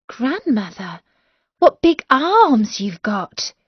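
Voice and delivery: put-on a girl marvelling at grandmother, slow; lightly voiced amazed girl; amazed little girl.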